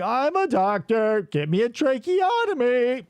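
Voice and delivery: lightly voiced deadpan robot; a hint of a mechanical robot; robot mime voice. Shown as a demonstration. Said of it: "why does that sound so familiar".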